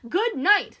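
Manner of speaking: emphatic, defiant farewell; firm. Acted. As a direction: shut the conversation down firmly. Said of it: "Stephanie said firmly".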